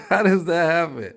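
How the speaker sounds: high, loud, baffled how-does-that-happen; amazed disbelief. Real, not acted. Looking at the wall with a friend, loud incredulous surprise. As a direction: ask it half laughing, truly astonished. Repeats amazed question after laughing.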